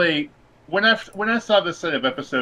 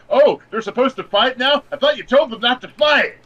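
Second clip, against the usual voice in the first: much higher, louder incredulous retelling; mock disbelief; 10 semitones higher, 5 dB louder than usual. Retelling his confusion at Nami's reversal, high mock disbelief. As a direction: replay your baffled reaction, pitched way up. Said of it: "And I was like".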